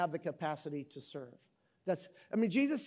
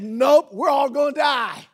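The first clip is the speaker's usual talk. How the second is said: mock despair; 6 semitones higher, 10 dB louder than usual. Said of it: "Adam would have gave birth".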